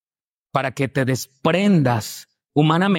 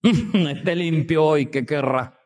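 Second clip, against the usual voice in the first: sarcastic; slower than usual. Retold or imitated. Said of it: "Eso es sarcasmo".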